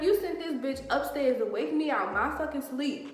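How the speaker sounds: acted-out indignant accusation; retold blow-up. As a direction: reenact chewing him out. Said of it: "So I automatically kirk".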